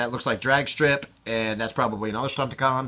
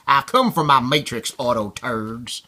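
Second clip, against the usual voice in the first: put-on southern accent. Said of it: "you can almost hear that".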